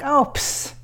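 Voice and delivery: Marilyn Monroe voice. Retold or imitated. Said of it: "She's like".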